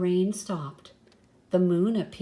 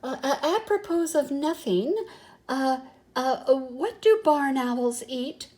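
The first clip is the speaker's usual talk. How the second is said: nervous, stammering and higher; trembly voice; 5 semitones higher than usual. Acted. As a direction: ask haltingly, a touch trembly. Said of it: "in a trembly kind of voice".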